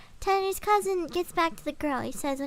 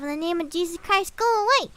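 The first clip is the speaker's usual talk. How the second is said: rising yell; 5 dB louder than usual. Retold or imitated. Reese shouting at the woods.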